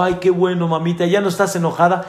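a light hint of a relieved little boy, fast; lightly voiced child, quick and relieved; eager child. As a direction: rush it out like a hopeful kid. Child voiced in joke story.

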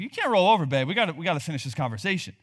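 quick, pestering husband voice, self-mocking; annoying husband. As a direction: nag your wife in a hurried mock plea. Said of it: "this is how annoying I am".

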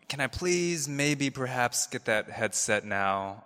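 a timid passive-aggressive request, lightly voiced; meek Adam Sandler. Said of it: "maybe you're like Adam Sandler".

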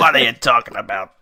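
loud, hammed-up New York American; mock New York accent. Host playing up his American accent for laughing co-hosts, mock New York accent. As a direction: blurt it out as a cartoon New Yorker.

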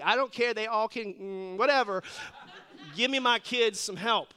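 loud, exasperated parent demand; mock outburst of a worried parent; impatient parent. Parent demanding help for his kid in the emergency room, exasperated.

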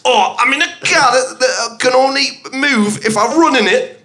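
put-on Geordie accent. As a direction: ham up the Geordie lilt. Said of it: "I'm a Geordie".

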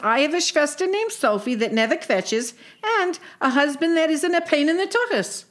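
lightly voiced sarcastic sister; a hint of a dry, kvetching sister; Sadie.

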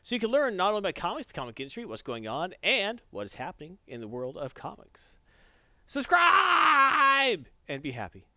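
booming, high showman announcer; loud announcer. Acted. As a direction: belt it out like a hype man. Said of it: "A little louder this time".

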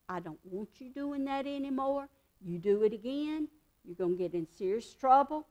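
soft, firm and loving; kind correction. Shown as a demonstration. Teacher gently correcting a child she loves, softly. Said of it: "or you can say".

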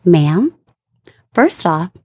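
calm, measured office voice; polite and composed, correcting a customer; professional voice. Retold or imitated. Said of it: "I say in my professional voice".

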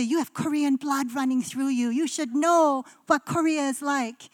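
lightly put-on Korean accent, barely there; a half-hearted imitation of her Korean parents' accent; bad Korean accent. Parents telling her about her Korean blood, mild mock Korean accent. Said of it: "That's such a bad Korean accent".

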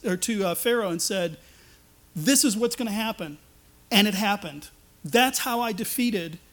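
preacher speaking as God, rising and insistent; voicing God. Preacher voices God reminding the freed people. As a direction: proclaim each deed as God himself.

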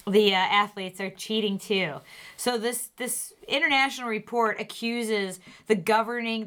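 steady news anchor delivery; news read. Acted. Reads news segment.

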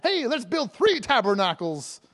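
slow, lightly hammed-up suggestion; mock-eager Peter. Preacher plays Peter piping up to Jesus, mock-eager. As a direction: pipe up with a supposedly brilliant idea. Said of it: "Peter pipes up with his brilliant statement".

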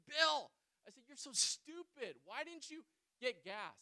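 loud, exasperated shout of his name; angry yell at Bill. Retold or imitated. Friend yelling at stranded driver, angry shout. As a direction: scold him for not getting gas. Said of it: "just yelling and screaming".

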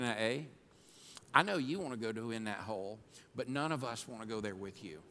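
calm her husband down gently; wife soothing her worked-up husband, softly; gentle wife's rebuke. Retold or imitated. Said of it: "She said".

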